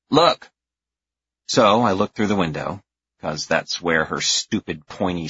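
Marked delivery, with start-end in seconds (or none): 0.1-0.5 put-on bossy little girl. A narrator's reading. Girl ordering him.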